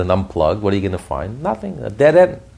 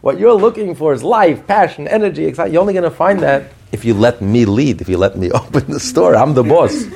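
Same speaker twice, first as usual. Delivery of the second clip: the godly soul, raised higher and louder, firm and insistent; godly soul speaking; 10 semitones higher, 5 dB louder than usual. Retold or imitated. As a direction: speak as the soul who holds the keys, lightly voiced. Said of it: "And the godly soul says".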